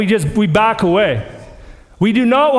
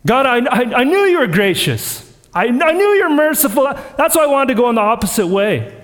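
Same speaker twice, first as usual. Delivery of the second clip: disdain. Retold or imitated. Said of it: "He's almost saying it with disdain".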